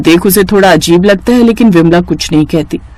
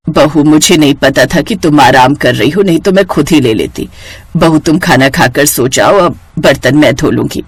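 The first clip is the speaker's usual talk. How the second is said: apologetic mother-in-law; 4 semitones lower than usual. Acted. Mother-in-law apologising to daughter-in-law, low and meek. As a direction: give in gently, low and meek.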